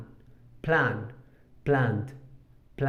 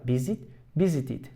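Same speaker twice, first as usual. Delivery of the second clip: visit and visited stressed on VIS; stress on first syllable. Shown as a demonstration. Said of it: "El acento sigue en la primera sílaba".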